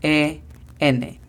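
letters spaced out for learners; spelled slowly for a beginner class. Shown as a demonstration. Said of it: "La pronunciación fonética es".

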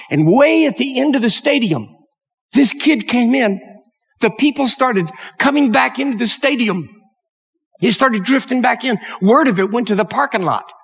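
high, stirred-up telling; moved and building to the finish; emotional storytelling. Real, not acted. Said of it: "didn't mean to get emotional".

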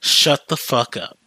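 slow, deliberate "Shut the fuck up"; savored put-down. Acted. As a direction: stretch out each word with relish. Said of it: "into the ultimate, like, satisfying".

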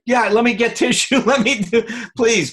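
a husband anxiously begging his crying wife to stop; flustered husband. Retold or imitated. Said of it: "you see guys do that if their wife is crying".

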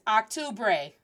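octubre opening on an English "ahk"; mispronounced Spanish. Shown as a demonstration. Teacher imitating learners' octubre, mispronounced with English "ah". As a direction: start octubre with an open "ah" like October. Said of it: "I hear people mispronounce this word".

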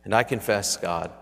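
reverent, earnest prayer voice. Acted. Pastoral prayer.

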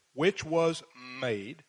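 slow, pointed air-quote delivery; sarcastic slow quote with a rising end; scare quotes. Shown as a demonstration. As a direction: drag it out to mock the claim.

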